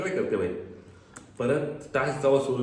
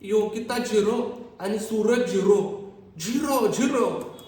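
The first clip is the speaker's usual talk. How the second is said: imitating a high, slow shrill call-out; mock her yelling the scores, higher and slow; mocking her shouting; 5 semitones higher, slower than usual. Vlogger mimics Janhvi shouting the scores, high and slow. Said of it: "कशाला तू बिंबीच्या देठापासून ओरडतेस".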